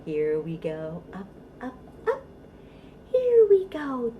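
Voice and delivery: sing-song rhyme, rising on up and falling to a whisper on down; playful action rhyme. Shown as a demonstration. Librarian demonstrating a baby bounce rhyme, sing-song. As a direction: act out the directions for a baby. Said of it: "Okay, let's try it".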